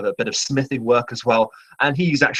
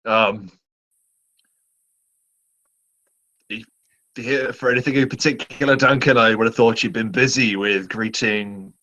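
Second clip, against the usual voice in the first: quartermaster voice. Acted.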